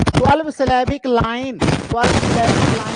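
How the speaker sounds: twelve syllabic line stretched out very slowly; slow emphatic repeat. Shown as a demonstration. Teacher repeating the term slowly so students remember it. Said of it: "teacher repeats term for emphasis".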